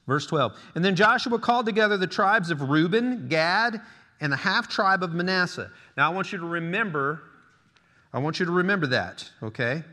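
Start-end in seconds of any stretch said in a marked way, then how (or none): 0.8-5.7 emphatic preacher reading the Bible aloud; scripture reading. Acted. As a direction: proclaim the verse to the congregation, raised pitch. Reads scripture aloud to congregation.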